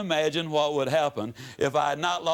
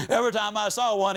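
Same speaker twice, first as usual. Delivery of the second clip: ordinary talk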